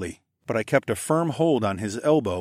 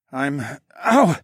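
broken off by a loud yelp; sudden pained "ow"; pained hiss; 5 semitones higher, 7 dB louder than usual. A narrator's reading. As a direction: start to answer, then cry out high in pain. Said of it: "he hissed".

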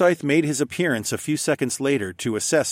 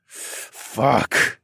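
groaned; 3 semitones higher than usual. Acted. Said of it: "I groaned".

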